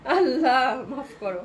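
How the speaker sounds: slow, loud plea through real laughter; laughing. Real, not acted. Seller recovering from giggles on a live sale, laughing. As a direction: gasp it out as the laughing fit ends.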